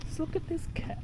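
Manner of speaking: hushed whisper so the cat isn't startled. Real, not acted. Sneaking up on a cat.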